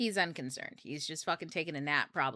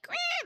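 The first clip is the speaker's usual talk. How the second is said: mock quack. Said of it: "the eagle doesn't sound like".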